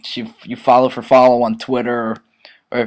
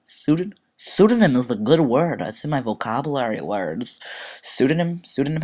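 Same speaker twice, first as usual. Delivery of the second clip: puzzled query; 4 dB quieter than usual. Real, not acted. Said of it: "Have you ever heard that word before".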